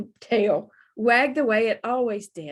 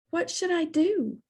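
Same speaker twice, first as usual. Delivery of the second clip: worried plea; 9 semitones higher than usual. Acted. Bubba pleads for help.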